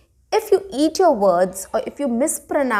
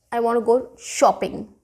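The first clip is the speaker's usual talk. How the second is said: "I want to go shopping." with shopping lifted; "shopping" said as the key word; stress on shopping. Shown as a demonstration. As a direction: lean on "shopping" at the end. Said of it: "shopping is something which I emphasized on".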